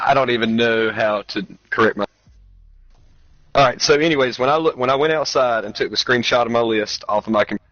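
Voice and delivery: mic cutting in and out; broken-up signal, words dropping; glitching audio. Real, not acted. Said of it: "your mic keeps messing up".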